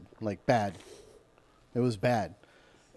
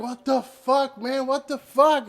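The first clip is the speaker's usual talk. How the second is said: mock panic; 10 semitones higher, 3 dB louder, slower than usual. Retold panic up in air.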